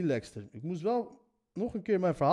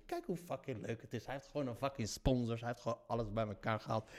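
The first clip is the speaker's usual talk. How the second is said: mocking aside; 8 semitones lower, 14 dB quieter than usual. Mocking the sponsored adventurer aside.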